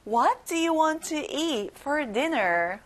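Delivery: very slow, spaced-out question; slow choral model. Shown as a demonstration. Teacher leading the class in slow repetition. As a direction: lead the class through it slowly. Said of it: "친구들 같이 말해볼게요".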